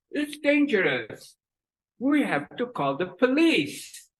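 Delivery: warning from a skewed mouth; mouth twisted right. Acted. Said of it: "Twisted to the right".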